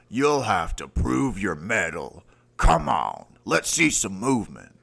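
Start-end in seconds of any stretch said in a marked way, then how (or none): 2.6-4.7 loud push to move; coaching shout. Acted. Trainer urging the recruit onward, loud push. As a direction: urge them on.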